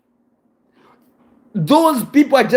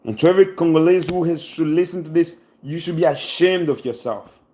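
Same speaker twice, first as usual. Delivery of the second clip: sad reproach; 5 semitones lower, 4 dB quieter than usual. Real, not acted. Emotional shaming of countrymen.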